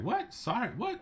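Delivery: high, shocked, disbelieving "what?"; surprised. Retold or imitated. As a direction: leap way up in disbelief. The police like.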